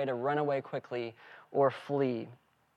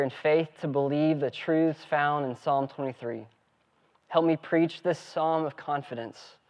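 prayer. Acted. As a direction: pray it over the congregation. Pastor leads opening prayer.

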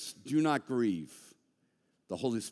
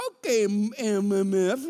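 mock angry retort; 8 semitones higher, 8 dB louder than usual. Retold heated text reply.

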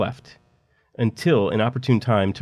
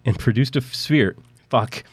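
stifled giggles; 3 semitones higher than usual. Real, not acted. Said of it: "I was really trying not to laugh".

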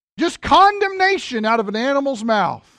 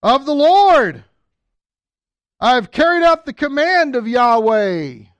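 slow, pompous, louder self-praise; smug Saul; 3 semitones higher, 5 dB louder than usual. Retold or imitated. Saul boasting to Samuel, hammed-up and pompous. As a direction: puff up like a proud king. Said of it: "Saul said to him".

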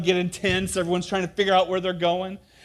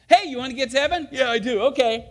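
false prophet exchange; 7 semitones higher, 4 dB louder, faster than usual. Retold or imitated. False prophet and kid voiced.

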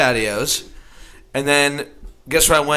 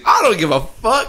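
cop voice; 9 semitones higher, 4 dB louder than usual. Retold or imitated. Retold cop quote.

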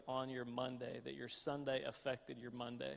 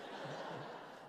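uneasy laugh; 3 semitones higher, 5 dB quieter than usual. Retold or imitated. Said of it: "That's like an uneasy laugh".

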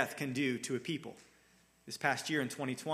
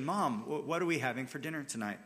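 quick and light, trusting the answer; a kid sure dinner will be good; trusting, thankful ask. Shown as a demonstration. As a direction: ask like you know mom has something good. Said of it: "spoken in love, with trust, and with even a sort of thankful expectation".

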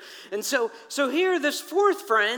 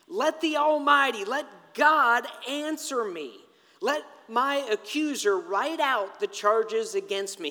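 defiant demand. Acted. Job calling on God to answer him, defiant demand. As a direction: demand an answer, stretching the key words.

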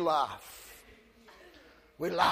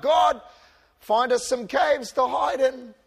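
mock plea; 3 semitones higher than usual. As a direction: pretend to beg God for a hiding place. Mock prayer of the fearful.

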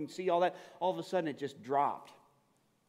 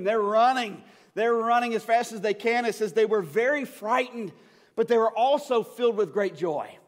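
excited preaching; 4 semitones higher, 5 dB louder than usual. Acted. Women run from the tomb, preached.

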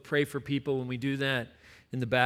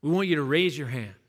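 retold rousing call; 4 semitones higher, 4 dB louder than usual. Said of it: "It's like".

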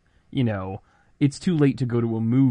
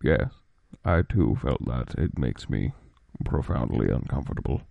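Ali voice; 8 semitones lower than usual. Acted. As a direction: speak low and solemn, very measured. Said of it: "deuter-canonical Ali voice".

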